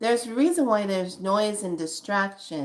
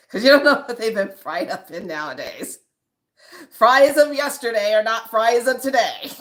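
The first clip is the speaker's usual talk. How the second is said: spirit voice; 5 dB louder than usual. Acted. Spirit loudly scolding her not to order fries. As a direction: boom it like a stern spirit scolding. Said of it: "that spirit telling you".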